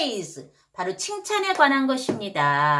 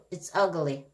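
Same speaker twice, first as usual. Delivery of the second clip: low-pitched, muted disapproval; downbeat verdict; 4 semitones lower, 4 dB quieter, slower than usual. Shown as a demonstration. Negative set against praise.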